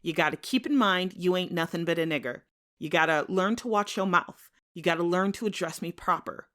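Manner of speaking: threatening white man. Acted. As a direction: lay down the law, cold and menacing. White man threatens Tom after shooting.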